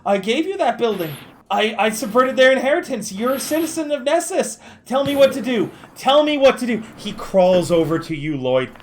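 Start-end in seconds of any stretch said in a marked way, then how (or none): 0.0-6.8 higher, pleading desperation; begging for orders, voice raised; frantic pleading. Acted. NPC pleading with citizen Lloyd, higher and frantic.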